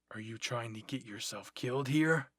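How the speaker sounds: mildly stern, rising in force; understated telling-off; scolding. Acted. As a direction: scold them with growing exasperation. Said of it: "a scolding voice said".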